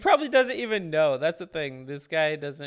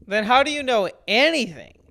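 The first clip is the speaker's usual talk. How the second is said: incredulous; 3 semitones higher, 4 dB louder than usual. Real, not acted. Mocking the no-translation claim.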